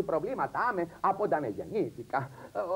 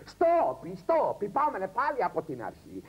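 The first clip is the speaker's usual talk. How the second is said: director calling; 3 semitones higher than usual. Retold or imitated. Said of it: "φωνάζει ο σκηνοθέτης".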